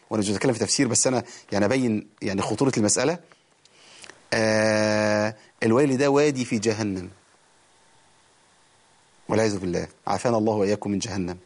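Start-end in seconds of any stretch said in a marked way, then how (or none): none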